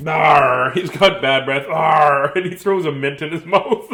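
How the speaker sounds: loud pirate Arr; gruff pirate. Acted. Pirates complaining about Saul's breath, loud gruff pirate. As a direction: grumble like a sailor.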